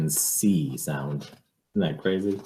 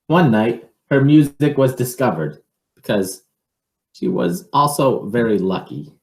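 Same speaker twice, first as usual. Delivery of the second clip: put-on lively read-aloud for children; picture book reading; 5 semitones higher, 6 dB louder than usual. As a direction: read it to a child, with a storyteller's lilt.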